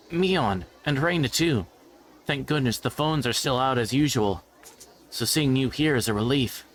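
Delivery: put-on a boy relieved to see Mion and Reina; relieved schoolboy. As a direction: sound glad to see them, lightly voiced. Greets his friends in character.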